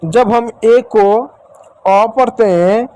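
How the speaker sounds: put-on slow, puzzled child asking about ए and अ; voicing a child's question. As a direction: ask it slowly like a confused pupil. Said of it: "child's question voiced".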